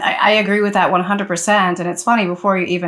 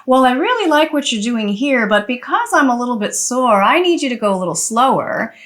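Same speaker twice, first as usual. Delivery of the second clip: over-explaining; 4 semitones higher than usual. Shown as a demonstration. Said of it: "that takes you so into your head".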